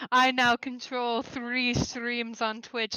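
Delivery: slow evil villain gloat; mad scientist. Pretend. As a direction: gloat slowly like a mad genius. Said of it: "I was gonna be like".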